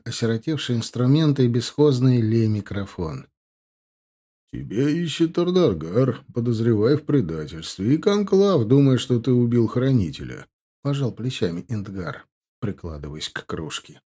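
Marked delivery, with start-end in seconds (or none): 4.5-10.5 sly, mocking orc; smug orc voice. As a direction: play the cocky young orc. Indgar voiced in story.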